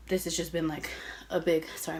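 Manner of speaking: slightly breathless talk; out of breath. Real, not acted. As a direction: speak between breaths. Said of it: "I'm out of breath".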